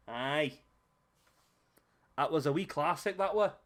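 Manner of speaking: lightly put-on Scottish accent; mock Scottish, not very convincing. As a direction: try a wee Scottish lilt. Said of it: "I really fell out my Scottish".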